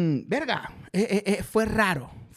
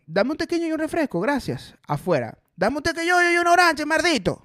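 quick, higher, hammed-up Maracucho order; exaggerated Maracucho; 7 semitones higher than usual. Tweet's Zulian ordering abroad, hammed-up Maracucho accent. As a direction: lay the Zulia accent on thick. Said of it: "él dice".

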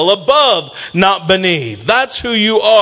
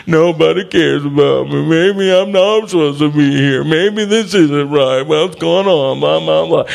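lightly acted moping to oneself; mock self-pity. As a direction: grumble along in mild mock self-pity. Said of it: "Gideon had one of those things".

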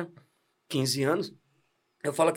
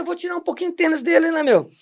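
quoting himself; 11 semitones higher, 5 dB louder, faster than usual. Retold or imitated. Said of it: "eu falei".

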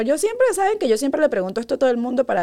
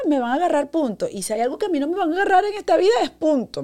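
put-on higher, fast childish resolve; child self; 5 semitones higher than usual. Little girl talking herself out of telling mom, higher and quick. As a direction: voice her stubborn little self, higher and rushed. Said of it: "y yo dije".

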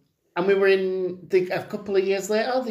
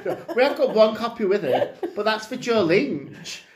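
laughing quote; 6 semitones higher than usual. Retold or imitated. Retelling filmmakers' reply, laughing.

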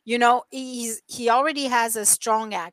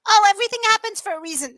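mock platitude; 10 semitones higher, 5 dB louder, much faster than usual.

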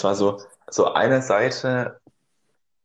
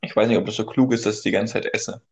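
mouth full. Real, not acted. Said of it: "mit vollem Mund spricht sich's besser".

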